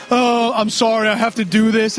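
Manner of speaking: mock-distraught, stretching the opening words; upset groom. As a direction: act out an overwrought groom. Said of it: "he's all fucking upset".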